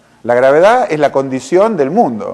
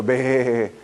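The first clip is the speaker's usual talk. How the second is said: balido de oveja; 2 semitones lower, 6 dB quieter than usual. Retold or imitated. Balido al oír la queja.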